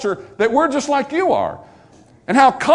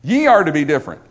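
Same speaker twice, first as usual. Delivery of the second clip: "Ye" raised and stressed, the rest falling away; emphatic YE; 3 semitones lower, faster than usual. Shown as a demonstration. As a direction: lean on "Ye", then ease off. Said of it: "the emphatic personal pronoun".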